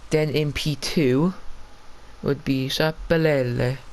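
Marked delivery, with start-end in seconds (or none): 2.2-3.8 put-on name said with a hammy Italian accent. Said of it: "I was waiting to do that for the whole".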